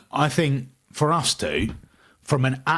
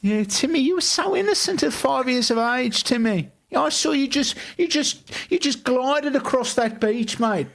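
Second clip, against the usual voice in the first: high, hammed-up Australian accent, laughing through it; a bad Aussie mate scolding Timmy; pitched-up bad Australian accent; 10 semitones higher than usual. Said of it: "trying this Australian accent".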